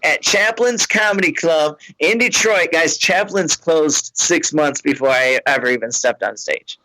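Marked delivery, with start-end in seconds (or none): 0.0-2.7 higher, insistent fan voice; tipsy fan. Retold or imitated. Fan pressing the comic about her ex, higher. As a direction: lean in, sure he knows.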